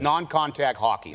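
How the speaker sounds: put-on slow, broad Boston accent. Actor quotes the man from the Boston tape, Boston accent. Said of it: "that's what he says all the time".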